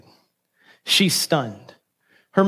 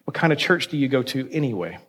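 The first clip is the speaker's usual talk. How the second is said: mildly hostile, lightly acted challenge; a touch of gruff distrust; trace of hostility; 2 semitones lower than usual. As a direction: question him with understated suspicion. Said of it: "a trace of hostility in his voice".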